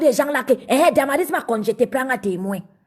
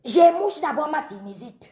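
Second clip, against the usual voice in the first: blocked nose. Real, not acted. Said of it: "j'ai la sinusite".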